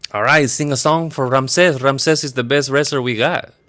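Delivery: lightly acted boss. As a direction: play a hint of a man giving orders, unhurried. Don Ramon ordering a song.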